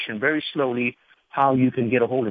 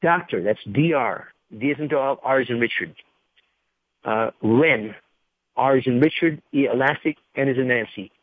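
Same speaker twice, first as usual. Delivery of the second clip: slow spelling. Real, not acted. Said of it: "And I'm gonna read this slowly".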